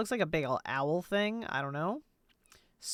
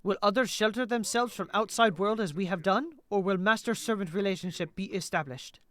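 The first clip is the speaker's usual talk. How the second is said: mildly solemn, detached counsel; understated in-character reading; lightly voiced aloof figure. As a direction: deliver a restrained, formal warning.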